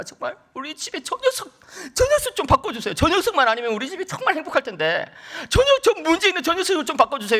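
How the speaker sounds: high-pitched, whiny mock pleading; retold pleading prayer. Father praying for God to change his son, pleading. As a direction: act out a desperate father begging God. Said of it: "이렇게 기도를 하니까".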